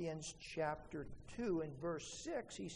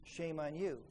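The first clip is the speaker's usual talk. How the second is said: stubborn grudge quote. Retold or imitated. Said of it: "they say".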